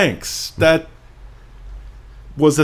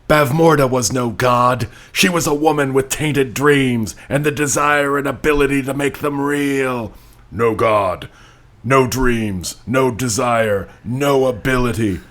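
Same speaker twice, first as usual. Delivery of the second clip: dramatic reading; 2 semitones higher than usual. Pretend. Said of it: "New character".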